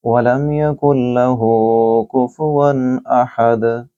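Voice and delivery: slow, drawn-out tajweed recitation; Quran recitation. Shown as a demonstration. Teacher reciting Surah Ikhlas for students, slow chant. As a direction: recite each verse slowly and melodically. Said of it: "इस तरीके से आप इसकी इंशाअल्लाह तिलावत करेंगे".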